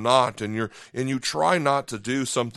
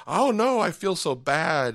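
dismayed regret; 4 semitones higher, slower than usual. Retold or imitated. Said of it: "you're like".

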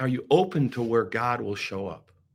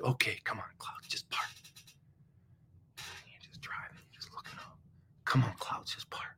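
hushed prayer; 5 semitones lower, 14 dB quieter than usual. Retold or imitated. Driver whispering to the clouds to part, hushed plea. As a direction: whisper it up at the sky, pleading.

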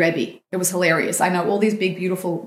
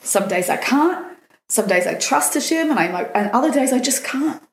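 tearful plea; 5 semitones higher than usual. Retold or imitated. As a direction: plead as if close to crying. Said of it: "I burst into tears to him and I said".

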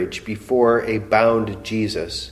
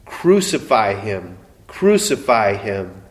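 mild crowd cry; 2 semitones lower than usual. Retold or imitated. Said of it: "they cried out".

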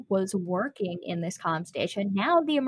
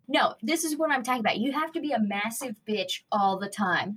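heated argument; 2 semitones higher, faster than usual. Acted. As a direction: fire back in a mock-heated quarrel. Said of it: "This argument is getting very, very heated".

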